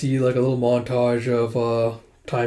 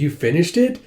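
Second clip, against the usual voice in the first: put-on high child's voice, rising in surprise; young child; 5 semitones higher, 3 dB louder than usual. Seven-year-old Minsu to Suwon about the book, young child voice. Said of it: "you see baby Minsu, seven years old".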